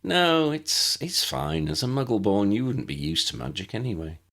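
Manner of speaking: put-on a patient older pupil showing the new girl around; Tessa the friendly older student. Tessa voiced in the story.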